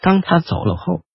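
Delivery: gentle voice full of hurt; softly, aching underneath; soft and pained. Acted. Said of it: "坦尼斯的声音柔和，其中充满了痛苦".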